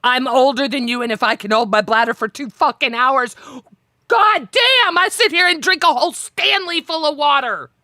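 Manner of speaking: retold exasperation rising to high pitch; exasperated rant. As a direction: build from plain gripe to high, mock outrage. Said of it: "That used to drive me nuts".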